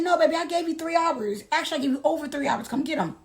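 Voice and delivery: put-on syrupy dismissive baby talk; mock-sweet refusal. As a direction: sweetly tell him no. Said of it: "I said".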